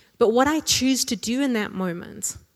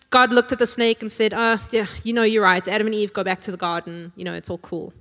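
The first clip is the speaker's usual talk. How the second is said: lightly voiced laid-back God, partly louder; mock casual God; 3 dB louder than usual. Preacher jokingly misquotes God to test the congregation. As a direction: play a deliberately wrong, breezy God. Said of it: "my bad theology".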